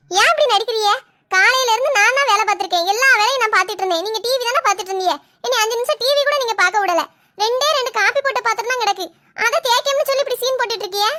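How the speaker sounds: heated, indignant complaint; quarrelsome protest. Acted. Daughter-in-law accusing mother-in-law of putting on an act, quarrelsome. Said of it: "சண்டை போட்டு இருக்கிய".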